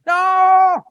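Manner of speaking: very high, drawn-out yell; shouted refusal. Acted. Crowd rejecting the carpenter's son, loud wailing shout. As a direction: cry out a rejection at full volume.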